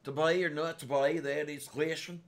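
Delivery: put-on Shakespeare quoted in a light Carolina southern accent; mock-deliver Hamlet like a southern Carolinian. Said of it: "would be more found in the Carolinas".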